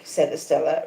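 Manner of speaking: plain reading voice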